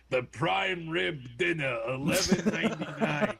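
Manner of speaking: slow, laughing pitchman voice; lightly voiced Telly Savalas, laughing through it; Telly Savalas impression. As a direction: hawk the casino deal like a smug spokesman. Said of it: "doing my Telly Savalas voice".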